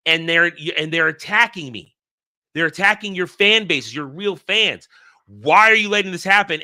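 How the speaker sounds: indignant protest. Retold or imitated. Fan confronts franchises over attacks on real fans, indignant. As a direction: protest on behalf of the fans, rising to exasperation.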